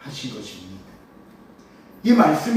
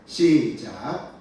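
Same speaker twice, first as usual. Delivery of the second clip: slow, stretched start signal; drawn-out cue; 5 semitones lower, much slower than usual. Real, not acted. Pastor cues the congregation to read, drawn out. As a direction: stretch out the word to bring everyone in.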